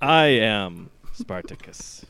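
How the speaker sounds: slow mock-heroic proclamation that falters; hammed-up movie declaration. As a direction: declare it grandly, drawn out. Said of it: "just sort of squeak a little bit".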